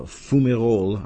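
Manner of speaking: Fumerol said slowly in a French accent. Shown as a demonstration. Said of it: "using my French accent".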